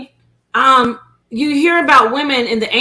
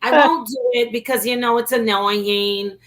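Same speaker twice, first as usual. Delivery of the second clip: put-on Brooklyn Italian accent; Marissa Tomei. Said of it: "Marissa Tomei was like".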